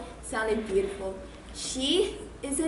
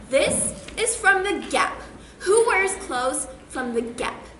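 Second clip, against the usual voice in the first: snobby disdain; 4 semitones higher, slower than usual. Retold or imitated. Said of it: "she's probably thinking".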